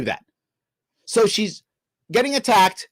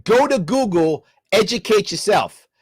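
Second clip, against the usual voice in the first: sarcastic mock quote. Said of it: "'cause that would work".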